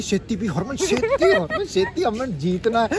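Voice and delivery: mock cheering, spiking high on शेती; egging a friend on to drink fast; playful imitated chant of शेती; urging on. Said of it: "जब ये तेरे को भी बोलती".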